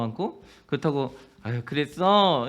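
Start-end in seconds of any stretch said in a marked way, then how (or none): 1.4-2.5 comforting hug voice. Pretend. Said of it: "안아주는 것도".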